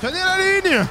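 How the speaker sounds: shouting orders over battle. Pretend. Yelling orders in battle game.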